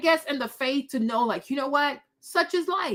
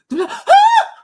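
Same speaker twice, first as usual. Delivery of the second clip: high, loud laugh bursting out; loud burst of laughter; 10 dB louder than usual. Real, not acted. Laughing at her own blunt joke, loud high laugh. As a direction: crack up laughing hard.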